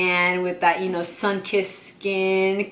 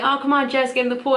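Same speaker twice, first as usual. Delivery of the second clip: imitated coaxing; 5 semitones higher, much faster than usual. Friends urging her to swim.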